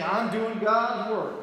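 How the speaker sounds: drawn-out, slow "God's" in a mock preacher twang; mock preacher accent on God. Mocking street preachers, preacher-twang on God. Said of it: "They don't have an accent. Except for the word God".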